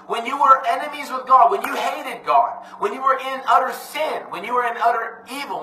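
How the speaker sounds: high-pitched, stretched preacher cadence; impassioned preaching. Real, not acted. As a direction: hammer each clause with rising fervour. Impassioned preaching on God's love.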